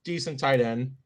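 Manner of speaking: talking with a mouthful of beer; mouth full. Real, not acted. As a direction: say it through a mouthful of drink. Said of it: "I got a beer here in my mouth".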